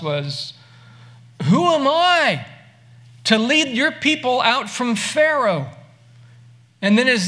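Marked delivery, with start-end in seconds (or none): 1.4-5.7 hint of a pleading Moses. Moses' excuse voiced.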